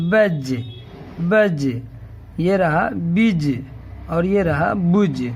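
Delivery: بج read clearly as baj; sounding out baj. Shown as a demonstration. Teacher shows how بج sounds with zabar. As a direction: say بج slowly and clearly. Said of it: "اور جیم کے ساتھ اسے ہم ملائیں گے".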